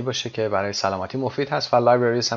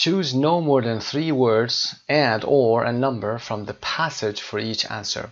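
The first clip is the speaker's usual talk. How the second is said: slow, deliberate read-aloud of the instructions; lightly formal instruction read; much slower than usual. Acted. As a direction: spell out the task slowly. Reads exercise instructions aloud.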